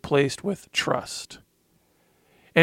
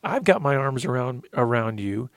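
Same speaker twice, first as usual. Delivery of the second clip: a hint of a loving father comforting his son; tender fatherly voice; 2 semitones higher than usual. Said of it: "Jesus put his arms around me and he said".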